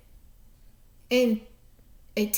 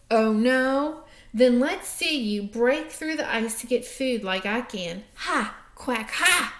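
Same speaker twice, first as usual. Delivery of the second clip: taunting duck. Acted. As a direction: gloat like a smug duck.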